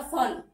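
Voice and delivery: फन said fun with an f; fa sound. Shown as a demonstration. Teacher shows nukta फन as fun. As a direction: say फन with an English f. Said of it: "इसका उच्चारण होगा फन".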